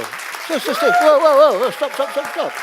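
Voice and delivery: high, urgent calls to stop; rising cry of stop, stop; stopping them. Real, not acted. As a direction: cut the scene off fast. Halting the exercise.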